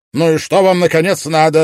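loud, high exasperated yell; shouting at the detectives. A narrator's reading. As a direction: scream it in frustration. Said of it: "опять завопил я".

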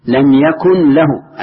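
slow يكن with a vowelless final n, then voweled له; sukun on يكن. Shown as a demonstration. Teacher showing students there is no clash of silent letters, sukun on يكن. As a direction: stretch out يكن, closing on a bare n before له. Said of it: "اللي بعده مفتوح ما هو ساكن".

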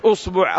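أصبع said "usbu'", u in both syllables; damma on both. Shown as a demonstration. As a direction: say أصبع with short u after hamza and ba. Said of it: "أنك إذا قلت".

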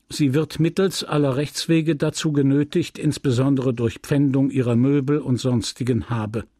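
reading out a stern legal notice; official notice. A narrator's reading. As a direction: deliver it as a court order.

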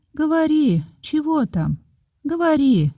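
eager nurse. A narrator's reading. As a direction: coax her to go on. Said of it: "сказала няня".

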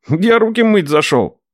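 nephew excusing himself. Acted.

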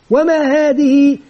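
slow, stretched question to the class; lightly put-on classroom questioning; teacher quizzing pupils. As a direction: prompt pupils, holding the last vowel. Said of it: "يمكن مثلًا يقول لهم".

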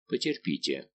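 low, soft, with a smile; smiling reply. A narrator's reading. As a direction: say it softly through a slight smile. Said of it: "молвил Монк с улыбкой".

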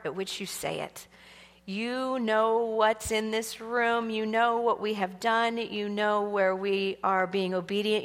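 soft, unhurried heartfelt prayer. Real, not acted. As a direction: talk quietly and intimately to Jesus, letting it settle. Leads the congregation in prayer.

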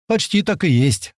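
high, drawn-out cheerful call; joyful shout. A narrator's reading. Young operator agreeing with the joke, joyful shout. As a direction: sing out the good news gleefully. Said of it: "снова радостно крикнул молодой".

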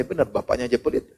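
muttered under the breath as a private thought; quiet inner thought. Retold or imitated. Preacher thinking about his son's stingy friend, quietly to himself. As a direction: keep it soft, thinking it to yourself. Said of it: "Dalam hati saya".

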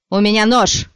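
high loud shriek. Acted. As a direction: squeal it in panic. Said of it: "взвизгнул Яре".

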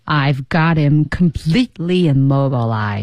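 slow, deliberate boast; unbroken breath. Shown as a demonstration. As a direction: draw it out on one breath. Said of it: "那个气息千万不能断".

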